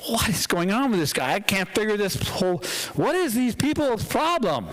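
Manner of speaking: mildly exasperated, pitch climbing; baffled commander. Acted. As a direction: lightly act a commander at a loss.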